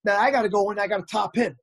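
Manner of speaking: loud psyched-up declaration; pumped up. Real, not acted. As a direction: gear yourself up to beat the rival. Psyching himself up to compete.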